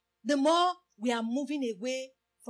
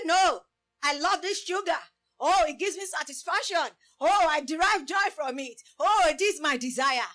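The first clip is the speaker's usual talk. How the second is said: loud, pleading craving for sugar; mock indulgent; 2 semitones higher, 5 dB louder than usual. Preacher acting a sugar lover, loud mock craving. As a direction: gush over the sugar like a spoiled addict.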